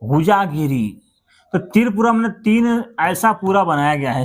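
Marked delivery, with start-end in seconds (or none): 0.0-1.0 said slowly, each syllable of हुजागिरी drawn out; हुजागिरी spelled out slowly for the class; slow repeat. Shown as a demonstration. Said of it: "क्या है?".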